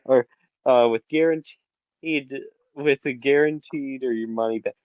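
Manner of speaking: lightly hammed-up sponsor pitch; mock ad read. Cohost jokingly pitching a VPN to viewers, mock ad read. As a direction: sell it like a half-joking commercial. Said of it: "Why am I doing a NordVPN ad?".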